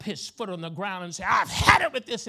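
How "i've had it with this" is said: loud, higher-pitched exasperated cry; fed-up outburst. Acted. Dinner guest storming out over a delay, fed up. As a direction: blurt it out, at the end of patience.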